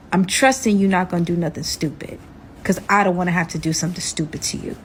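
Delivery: lightly voiced menacing captor; kidnapper's warning. Kidnapper warning his captive, quietly threatening.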